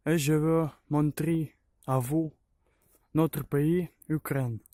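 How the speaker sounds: halting French with a Ukrainian accent; non-native French, searching for words; broken french. Real, not acted. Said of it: "Je parle un peu français".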